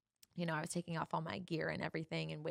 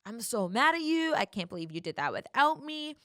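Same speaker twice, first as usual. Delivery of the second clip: louder, half-hearted retold rant; mock angry yelling; 5 dB louder than usual. Boyfriend raging at her through the locked door, mock yelling. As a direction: replay his rant a notch up. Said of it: "just, like, yelling, screaming".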